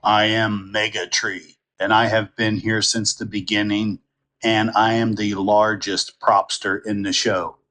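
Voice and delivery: lightly voiced tree character, measured and even; a hint of a character voice, evenly pitched; Megatree. Shown as a demonstration. Recording a show line for voice conversion, lightly voiced character. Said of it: "I recorded this".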